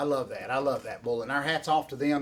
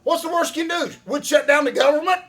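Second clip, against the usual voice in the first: excited joking pitch; 9 semitones higher, 7 dB louder than usual. Real, not acted. Hyped political joke with laughter.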